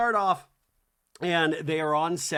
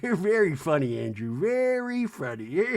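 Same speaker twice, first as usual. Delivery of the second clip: giggly imitation. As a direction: imitate a tickled guest teasing the host. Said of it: "Meredith's giggling".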